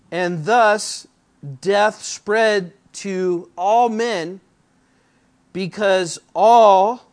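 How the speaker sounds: slow, loud preaching read, climbing to the last word; slow, loud, rising sermon delivery; preaching at full force. Acted. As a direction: drive the verse home from the pulpit. Reads verse twelve with comments.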